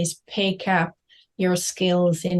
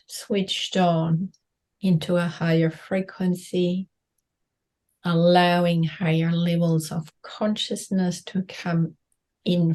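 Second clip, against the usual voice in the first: guided meditation. Acted. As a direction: guide them gently inward.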